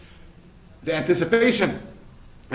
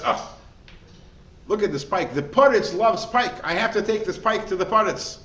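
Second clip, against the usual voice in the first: excited fisherman; 6 semitones higher, 5 dB louder than usual. Acted. Fisherman's excited quote in parable.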